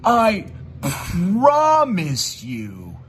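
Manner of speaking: slow, drawn-out mock sincerity; mocking imitation. Mocking his rival's fake promise, slow and drawn out. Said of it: "made that one believable for me".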